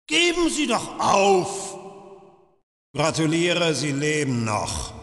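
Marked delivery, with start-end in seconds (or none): 0.1-1.8 mocking shout. Torturer urging captive to give up.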